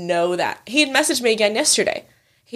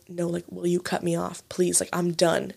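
hushed plea; 2 semitones lower, 7 dB quieter than usual. Retold or imitated. Repeats discreet plea to friend.

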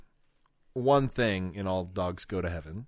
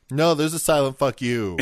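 louder snarky comeback; insistent correction; 2 semitones higher, 4 dB louder than usual. Pretend. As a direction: shut the pedant down smugly. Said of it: "That's a good response".

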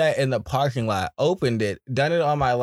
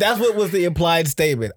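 ordinary talk

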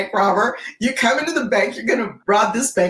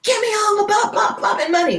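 robber's demand; 13 semitones higher than usual. Retold or imitated. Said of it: "sticks the gun in her face".

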